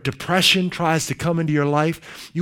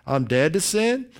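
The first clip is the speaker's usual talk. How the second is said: softly affirm, dropping to almost a murmur; quiet declaration; 8 semitones lower, 8 dB quieter than usual. Shown as a demonstration. Preacher modelling the believer's answer to temptation, softly. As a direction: speak it low, like an inner reflex. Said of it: "it should be an automatic response".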